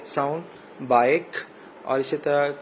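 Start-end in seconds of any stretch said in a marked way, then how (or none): 0.9-1.4 بائک with a long "eye" vowel. Shown as a demonstration. Teacher showing the long I sound, long-vowel بائک. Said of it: "long وال sound آ رہی ہے".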